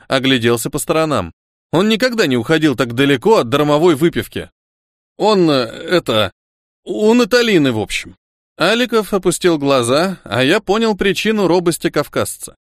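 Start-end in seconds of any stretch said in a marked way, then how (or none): 5.2-8.2 put-on nervous Caucasian accent. A narrator's reading. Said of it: "Когда Руслан волновался, его акцент усиливался".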